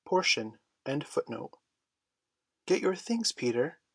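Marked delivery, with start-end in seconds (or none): 2.6-3.8 higher, trembling urgent call; shaken cry. A narrator's reading. Wendy pleading with Peter to pack, a shaken cry. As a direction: urge him to pack in a rising panic. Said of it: "she cried, shaking".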